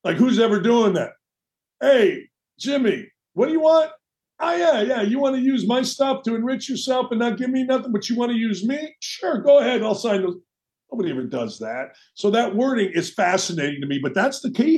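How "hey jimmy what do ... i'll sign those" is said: higher, sarcastic play-acting of a gullible guy; sarcastic mock exchange, voice pitched up; mock naive agreement. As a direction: ham up the sucker who signs anything. Mock dialogue of a naive signer.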